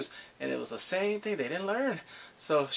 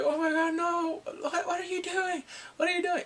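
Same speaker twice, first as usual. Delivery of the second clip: mock panic; 14 semitones higher than usual. Kidnapper panics on the roof.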